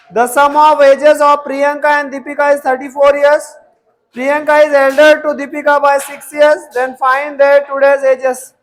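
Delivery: teacher dictating a word problem, slow and loud. Acted. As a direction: read each word slowly and clearly.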